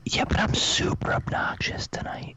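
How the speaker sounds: tipsy whisper. Real, not acted. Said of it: "when you've been drinking".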